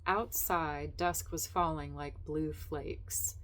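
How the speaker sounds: measured reading of a literary story; lightly voiced literary narration. Reading resumed.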